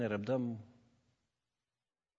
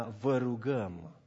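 slow tender request; gentle plea; 2 semitones lower, much slower than usual. Retold or imitated. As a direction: ask kindly, as Paul urging. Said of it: "Pavel parcă schimbă și glasul".

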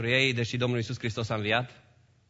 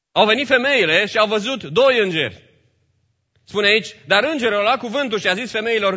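high, raised preacher's voice; emphatic scripture reading; 7 semitones higher, 7 dB louder than usual. Acted. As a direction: proclaim the angel's message to the congregation. Preaches and reads scripture aloud.

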